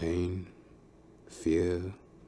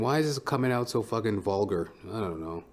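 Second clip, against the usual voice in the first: usual speaking voice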